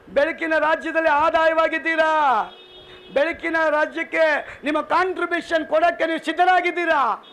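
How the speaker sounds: insistent, ringing pulpit questions; preaching challenge. Real, not acted. Preacher challenging congregation about giving, preaching insistently. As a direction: press the congregation with each question.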